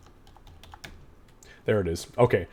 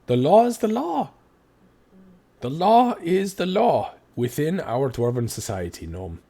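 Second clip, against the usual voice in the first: loud, high stern judge; a dwarven magistrate barking the verdict; stern ruling; 5 semitones higher, 4 dB louder than usual. Acted. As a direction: lay down the law to the gnome. NPC judge rebukes the cleric.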